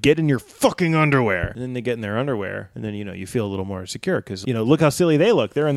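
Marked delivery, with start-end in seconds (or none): 0.0-1.5 raised voice. Acted. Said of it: "it can be scary raising your voice".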